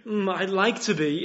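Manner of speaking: a vague, half-hearted "Mm, I'd like to be". Shown as a demonstration. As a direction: shrug it off noncommittally. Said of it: "a kind of vague".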